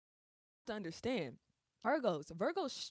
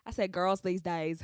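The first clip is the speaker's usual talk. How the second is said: louder-leaning, thick country accent; country accent turned right up; 4 dB louder than usual. Real, not acted. Repeating herself to viewers in a thick country accent. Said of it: "the country accent is on ten".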